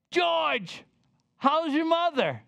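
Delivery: high, delighted call of his name; the same lady greets him again, high and pleased; friendly greeting. Retold or imitated. Retelling the lady's greeting.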